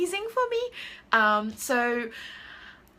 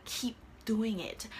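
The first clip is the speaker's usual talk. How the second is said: whisper; 6 dB quieter, slower than usual. Real, not acted.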